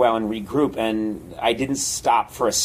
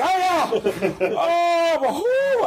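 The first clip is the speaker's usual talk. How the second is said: high yelping cries of fright; startled yelps; slower than usual. Retold or imitated. Lecturer jolted by the skeleton, high frightened yelps. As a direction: yelp as if something jumped at you.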